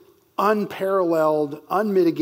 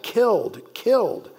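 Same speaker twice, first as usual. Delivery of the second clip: both killed pitched high and falling hard; emphatic repetition; 5 semitones higher than usual. Shown as a demonstration. Teacher repeating the emphatic doubling, each killed struck high and hard. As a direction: drive each killed down like a verdict. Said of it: "Again, that emphatic".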